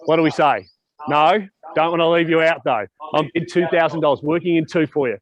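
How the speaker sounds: brisk auctioneer patter, calling bids. Acted. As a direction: run the auction, keep the bids moving.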